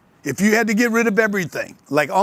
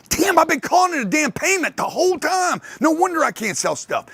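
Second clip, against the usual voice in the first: realization; 11 semitones higher than usual. Retold or imitated. Realizing his sales mistake.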